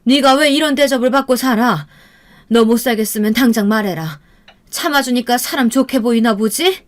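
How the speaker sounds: exasperated scolding, pitch rising in places; moderate, simmering acted anger; angry mother. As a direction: scold your daughter out of indignation. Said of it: "어머니는 화가 단단히 나셨고".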